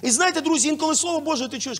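ordinary talk

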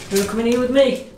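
high coaxing voice for the dog; high dog-talk voice. Real, not acted.

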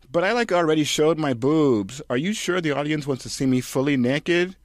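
put-on high, loud valley-girl whine; whiny Kirsten. Kirsten complaining to the director, high whine. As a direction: whine it like a ditzy starlet.

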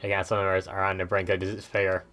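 lightly voiced robot. Streamer reading game dialogue aloud, slight robot voice. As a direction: read it a little like a robot. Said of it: "talked like that in a robot voice".

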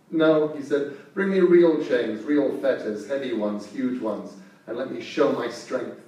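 loud, scornful giant wolf; scornful shout. Acted. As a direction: bellow for real chains.

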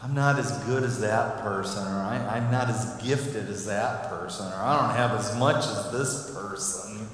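low, discouraged grumble; mock griping. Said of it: "gripe about our situation".

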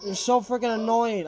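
fed-up shout, words stretched out; exasperated. Real, not acted. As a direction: yell at a pest that keeps following. Fed up with pursuing monster.

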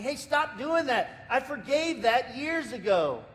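high, slow, gently scolding God. Retold or imitated. Preacher voicing God telling the congregation to stop. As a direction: let God gently wave it off. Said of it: "God would say to us".

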